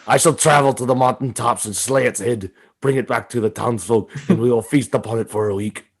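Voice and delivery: lightly voiced village champion; mock fantasy hero. Host acts out slaying a mythical beast, mock heroic. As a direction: declaim a mock-epic quest.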